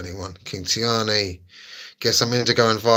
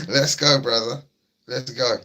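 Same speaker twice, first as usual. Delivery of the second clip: hyped cheer; 3 semitones higher than usual. Real, not acted.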